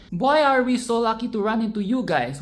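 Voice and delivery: mean every word of it; earnest happy greeting; sincere enthusiasm. Shown as a demonstration. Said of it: "your message comes across as sarcastic".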